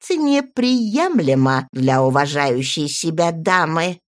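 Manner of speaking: disapproving aristocrat; prim old lady. Acted. Baroness reproaches primly.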